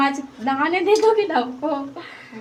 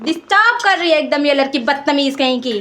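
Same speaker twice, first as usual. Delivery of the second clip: exasperated outburst at an interruption; irritated scolding; 2 semitones higher, 4 dB louder than usual. Real, not acted. Scolding the girl who disturbs her.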